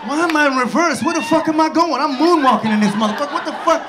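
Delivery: freaking out rolling backwards; panicked ranting. Retold or imitated. Stuck skier ranting at his skis, panicked. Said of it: "I was like".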